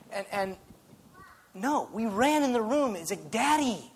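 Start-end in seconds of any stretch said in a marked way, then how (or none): 3.3-3.9 put-on eager child calling daddy. Kid running to dad.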